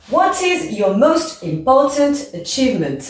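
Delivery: achievement? sinking at the end; falling question. Shown as a demonstration. Teacher modelling an open question, falling tune. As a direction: bring the voice down on achievement?. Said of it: "on descend".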